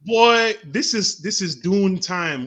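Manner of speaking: hyped. Real, not acted. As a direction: announce it like a hype man. Hyped about Dune.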